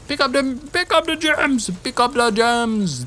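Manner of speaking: high-pitched mock Jamaican accent; playful, badly faked Jamaican accent. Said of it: "That is my, uh, best Jamaican accent".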